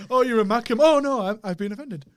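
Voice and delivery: mock someone who takes offence; mock offended.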